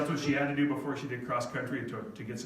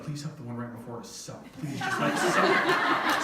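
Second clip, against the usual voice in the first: pleading; 4 semitones lower than usual. Retold or imitated. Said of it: "I was like".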